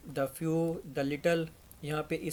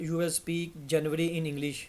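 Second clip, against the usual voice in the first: very slow, clear English; careful model sentence; slow example; much slower than usual. Shown as a demonstration. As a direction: read it slowly for students. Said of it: "slow teacher example".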